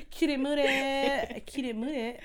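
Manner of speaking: drawn-out "Cutie mooted", oo in "mooted"; silly slow "Cutie mooted"; playful echo. Pretend. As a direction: laughingly stretch "Cutie mooted". Echoes the silly version, laughing.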